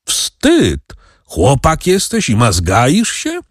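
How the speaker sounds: a high, mock scolding of a teary boy; play-scold the boy, anger clearly put on. A narrator's reading. Man teasing the crying boy Tomek, mock scolding. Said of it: "zgromił go z udanym gniewem".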